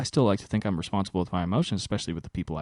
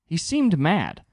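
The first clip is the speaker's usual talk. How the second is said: mock confused golfer; 9 semitones higher, 4 dB louder than usual. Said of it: "they're like".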